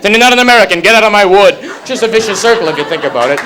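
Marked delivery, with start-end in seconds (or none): 0.0-1.5 a touch of a gruff father snapping; higher, louder mock dad outburst; mock angry dad. Father throwing his son out, hammed-up angry.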